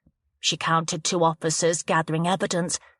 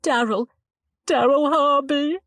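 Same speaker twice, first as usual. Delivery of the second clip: put-on upset young woman, lightly higher; 9 semitones higher, 4 dB louder than usual. A narrator's reading. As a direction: shaken girl giving a statement. Chloe's voice.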